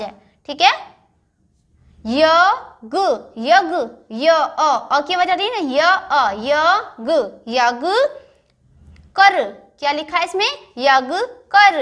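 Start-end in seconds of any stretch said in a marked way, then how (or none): 2.0-11.8 गे जे then गज, each syllable drawn out slowly; slow syllable reading. Shown as a demonstration. Teacher reading गज तक चल syllable by syllable. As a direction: blend letters into words very slowly. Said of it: "इसको अच्छे से सुनना".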